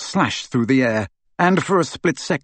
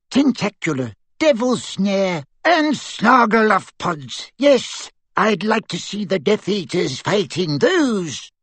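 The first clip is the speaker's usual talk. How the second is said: muttering; 6 semitones higher, slower than usual. A narrator's reading. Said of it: "they could hear her muttering".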